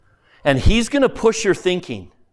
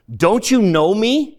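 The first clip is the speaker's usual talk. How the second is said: a louder, slow, higher call of "Don't you know me?"; shouted greeting; 5 semitones higher, 5 dB louder than usual. Acted. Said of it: "shouted the bright people".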